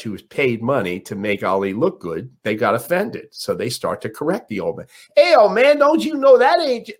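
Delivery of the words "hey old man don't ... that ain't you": high, loud scolding; entourage rebuke. Retold or imitated. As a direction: bark it high at the old man. Entourage corrects old man.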